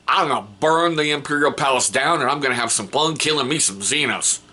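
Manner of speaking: a hint of a Southern warrior bragging; Southern accent. The hobbyist voices his shield captain in a light Southern accent. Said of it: "I don't know why I made him Southern".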